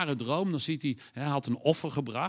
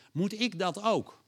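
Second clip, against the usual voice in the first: usual speaking voice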